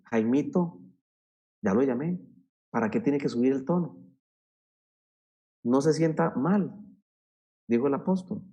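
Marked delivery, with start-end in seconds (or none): 0.0-6.7 softer, even and kind but firm; gentle firmness; calm firm tone. Shown as a demonstration. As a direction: speak to Jaimito calmly without raising the voice. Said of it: "Usted le tiene que decir".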